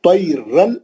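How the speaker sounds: तैरन with a short, clean final n; तैरन rising, ending promptly on n; clear nun. Shown as a demonstration. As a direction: catch the n of तैरन at once, no hum. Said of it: "वहीं पकड़ लेना नून को".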